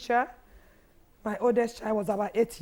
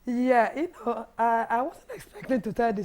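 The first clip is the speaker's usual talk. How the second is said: hoarse voice. Real, not acted. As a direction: speak with a worn-out hoarse voice. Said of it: "I lost my voice".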